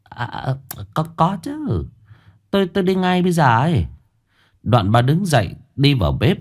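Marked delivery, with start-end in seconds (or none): 0.0-3.9 flustered, high, fast stammering; startled stammer. A narrator's reading. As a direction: blurt it out, caught off guard. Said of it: "bà mới giật mình ú ớ". (giật mình, lắp bắp vội vàng)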